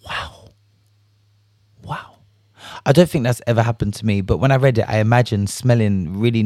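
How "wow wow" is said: barely audible, much softer wows; stunned wow. Retold or imitated. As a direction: let each wow drop to almost nothing. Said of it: "I said".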